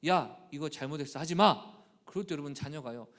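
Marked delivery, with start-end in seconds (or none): 0.1-1.7 mock scold, much louder on the end; a parent snapping no at a child. Parent scolding a child, mock scold. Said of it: "자녀들을 양육할 때 부모님들".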